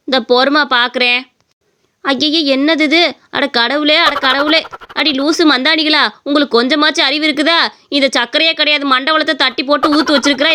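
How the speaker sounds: a lightly voiced old mother-in-law, annoyed; scolding mother-in-law. Mother-in-law finds fake sugar.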